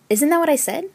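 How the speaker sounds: high, rising baffled question; puzzled thought. A narrator's reading. Newcomer thinking she said it the same, puzzled. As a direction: wonder it in mild protest. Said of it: "I would think".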